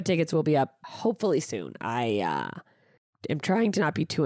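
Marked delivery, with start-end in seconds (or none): 1.8-2.6 voice cracking. Real, not acted. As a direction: voice cracks mid-sentence. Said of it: "my voice just cracked".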